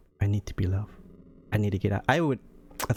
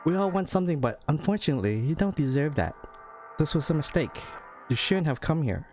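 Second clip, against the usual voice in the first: higher, taunting voice for the date; a higher, scornful game villain; mocking cruel date; 4 semitones higher than usual. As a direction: sneer down at the lonely loser. Reads date's dismissal.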